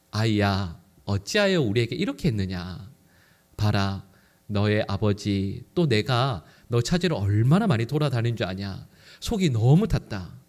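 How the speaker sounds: a calm mother gently voicing her worry; gentle dignified mother. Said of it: "마리아가 이렇게 점잖게 이야기해요". (점잖고 부드러운 어머니의 말투)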